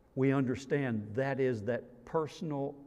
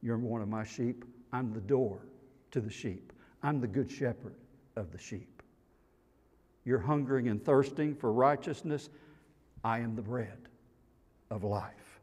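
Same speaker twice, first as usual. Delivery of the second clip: tender reassurance; 3 semitones lower, 5 dB quieter than usual. Acted. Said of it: "says to you and me".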